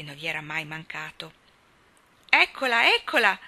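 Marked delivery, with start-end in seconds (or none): 2.3-3.4 high, loud cry of joy at the shape approaching; excited cry. A narrator's reading. Rob spots a figure in the dark and cries out excitedly. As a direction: call out thrilled, mother is here. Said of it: "gridò".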